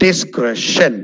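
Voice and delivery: Discretion as "dis-KRESH-un"; short E in Discretion; correct pronunciation. Shown as a demonstration. Teacher repeating Discretion for learners, correct pronunciation. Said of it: "it's discretion".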